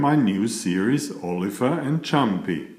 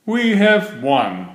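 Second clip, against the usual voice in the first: gasped; 6 semitones higher than usual. A narrator's reading. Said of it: "he gasped".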